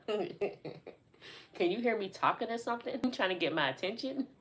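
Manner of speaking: laughing through the words; tickled, laughter breaking in; amused. Real, not acted. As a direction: talk through real giggles. Laughing over the mistaken yelling.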